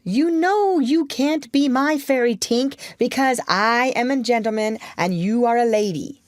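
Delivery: put-on high-pitched, reasoning boy; arguing. A narrator's reading. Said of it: "He tried to argue with Tink".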